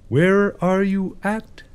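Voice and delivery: high, sing-out kitty call; cat-calling voice. Pretend. Player looking for the pretty kitty cat, high coaxing call. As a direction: coax a cat out in a high little voice.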